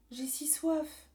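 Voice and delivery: thirsty whisper, high; murmuring. Acted. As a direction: whisper it, parched and weak. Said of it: "murmure la terre".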